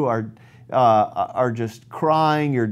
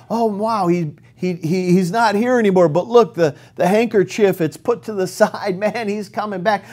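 excited disciples; 4 semitones higher than usual. Retold or imitated.

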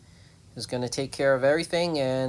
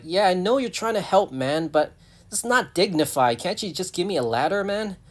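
higher, lightly voiced hedgehog protest; pleading hedgehog; 5 semitones higher than usual. Hedgehog asking the rescuer for a ladder, pleading. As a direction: plead as a put-upon little animal. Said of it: "So now the hedgehog's like".

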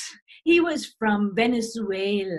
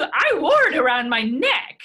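louder, rising insistence; 7 dB louder than usual. Real, not acted. Grandma insisting to granddaughter, loud and rising. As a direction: push the point, rising at the end.

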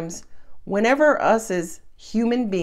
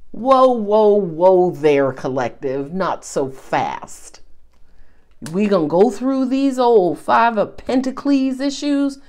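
sassy halt; 4 dB louder than usual. Retold or imitated. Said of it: "Universe is like".

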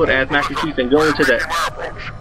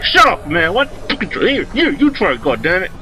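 high, exasperated retold outburst; 4 semitones higher than usual. Big brother arguing over the controller, exasperated. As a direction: snap it out in mock irritation.

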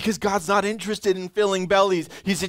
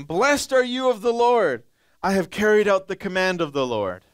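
a higher, brighter-voiced Saul, overeager and louder; Saul's false cheer; 3 semitones higher, 4 dB louder than usual. Saul greeting Samuel with hollow, eager cheer. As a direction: greet the prophet like nothing is wrong.

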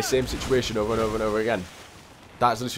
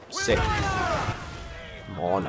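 frustrated shout; much slower than usual. Real, not acted. Gamer yelling at the game after getting hit, frustrated shout. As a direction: cry out at the game.

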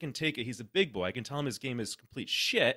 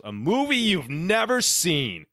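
"A movie you've never seen" louder, higher and slow, every word hammered; all caps shout; 5 semitones higher, 8 dB louder, slower than usual. Retold or imitated. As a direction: read it like it's typed in all caps. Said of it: "he's got all caps".

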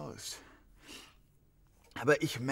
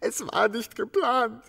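higher, louder and slow; desperate insistence; 6 semitones higher, 8 dB louder, slower than usual. Acted. Suspect insisting to the detective, desperate and raised. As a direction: push it out, close to breaking.

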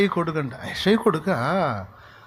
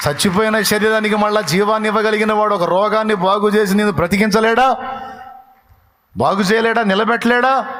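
higher and louder, climactic preaching; full-force preaching; 7 semitones higher, 3 dB louder than usual. Acted. Preacher rouses the congregation about healing, higher and louder. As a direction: thunder the questions at the congregation.

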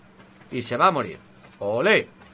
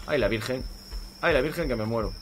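low, softer lament; low worried muttering; 3 semitones lower, 6 dB quieter than usual. Real, not acted. Gamer whose character is dying, low worried lament. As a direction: worry under your breath. Character freezing, running for fire.

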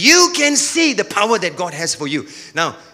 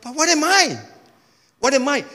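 mild doubting churchgoer; 3 semitones higher than usual. Acted.

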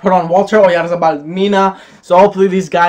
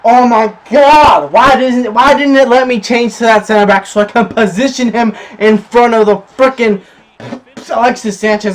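frustrated rant; 3 semitones higher than usual. Real, not acted. Complains about player switching.

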